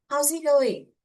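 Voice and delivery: loud, high call-out; acted yell. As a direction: yell it out like a greeting. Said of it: "He yells".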